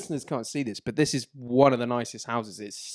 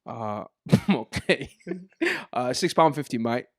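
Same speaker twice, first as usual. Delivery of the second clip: put-on Turkish kebab man accent. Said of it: "do the Turkish kebab man accent".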